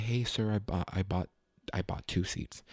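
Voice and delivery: soft, low, hesitant explanation; polite, mild. Retold or imitated. Passenger politely telling staff about his seats, mild. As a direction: tone it right down, meek and courteous. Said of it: "I could have said".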